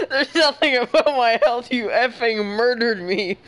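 quoting him through giggles; laughing quote. Retold or imitated. Friend mocks his angry line, giggling. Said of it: "Say it again, as serious as you sounded".

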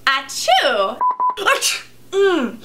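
a genuine sneeze, then a stifled one; real sneeze. Real, not acted. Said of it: "That one was real".

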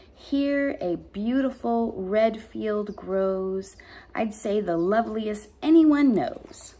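steady, expressive poem read. Acted. Teacher reading a rose poem to the class, expressive. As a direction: read to kids with care.

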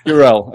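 "Burrell" said byoo-RELL; copied pronunciation. Shown as a demonstration. Host repeating the guest's surname, "Burrell" as byoo-RELL. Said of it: "we'll go with Burrell".

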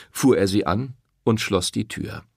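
ordinary delivery

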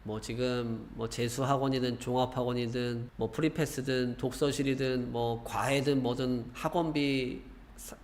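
ordinary delivery

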